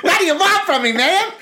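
high, laughing mock complaint; laughing retort. Teasing Sue about the spicy bread, laughing. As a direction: toss it off through laughter. Retold cheeky reply to Sue.

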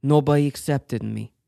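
lightly put-on Italian accent; a faint Italian lilt for the confession. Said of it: "you gotta do the Italian accent".

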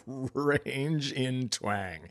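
very slow, softly laughing stretch; amused, drawn-out. Pretend. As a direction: stretch every word through a chuckle. Drawls the phrase out, amused.

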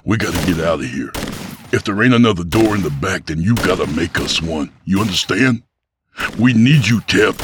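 fast, rising urgent plea. Acted. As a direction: hurry him along, then press hard on we need you. Abel urging Tep to escape.

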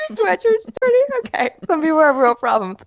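high, mocking repeat of his complaint; high mocking sarcasm; sarcastic retort. Imagined retort to husband.

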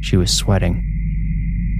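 slow, breathy whispered words; hushed. A narrator's reading. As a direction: let the fear drain the voice out. Dread in bedtime horror story.

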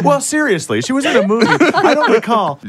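loud high laughing. Real, not acted. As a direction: laugh while talking.

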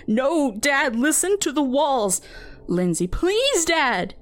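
high, frightened pleading; scared teen pleading with her father; desperate plea. A narrator's reading. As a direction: beg dad to listen, near tears. Daughter pleads with disbelieving dad.

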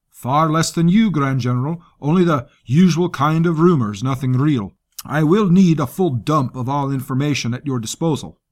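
lightly voiced coarse soldier; gruff commander voice. Rusk voiced by narrator.

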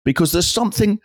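put-on fussy amateur detective questioning a sweet old lady; a hint of a nosy cricket-club detective; village sleuth character.

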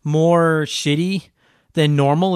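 blocked nose from allergies; stuffy nose. Real, not acted. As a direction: talk through a stuffed-up nose. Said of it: "I'm pretty stuffed up".

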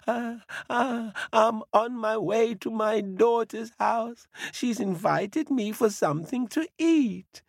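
put-on high, frightened little old woman; trembling old lady. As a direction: stammer up at the bear in fright. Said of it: "she trembled".

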